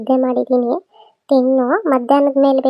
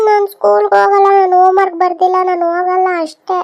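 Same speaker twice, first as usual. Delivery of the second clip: sulky refusal; 4 semitones higher, 3 dB louder, faster than usual. Acted. Spoilt child refusing school.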